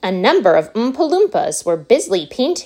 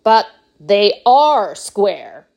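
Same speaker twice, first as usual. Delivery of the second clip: eccentric candy maker; 5 dB louder, much slower than usual. Acted. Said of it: "said Mister Wonka".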